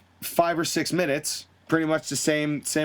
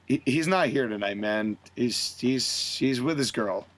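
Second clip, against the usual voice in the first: low, subdued, heavy-hearted; hushed somber reply; 6 semitones lower than usual. Retold or imitated. Awkward silence, Fish upset about Adam.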